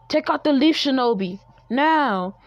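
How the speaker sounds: high, loud battle order; commanding shout. Acted. Naruto orders attack on intruders.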